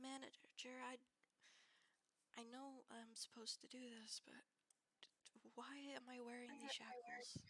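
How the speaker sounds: sorrowful, reluctant tone. Overheard as you approach, a woman questions her manager, in sad tones. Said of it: "She's got like sad tones in her voice".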